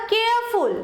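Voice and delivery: কেয়ারফুল with weight on কেয়ার, ফুল falling; stress on first syllable. Shown as a demonstration. Teacher giving a further example, কেয়ারফুল stressed on কেয়ার. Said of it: "কেয়ারে বেশি জোর পড়লো".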